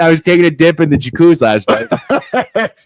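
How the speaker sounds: put-on a laid-back Canadian accent; easygoing Canadian accent with a laugh. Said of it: "I want that voice".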